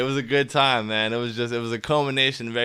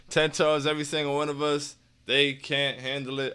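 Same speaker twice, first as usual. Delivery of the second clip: flat, softer, no energy; low enthusiasm; 5 dB quieter than usual. Shown as a demonstration. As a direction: say it half-heartedly, letting it drop. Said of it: "I don't have the same enthusiasm for it".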